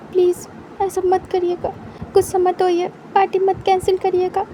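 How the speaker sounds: Wing begging Wang Ji not to cancel the party, building desperate; rising desperate plea. Acted. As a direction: plead harder and harder until nearly shouting. Wing pleads about party.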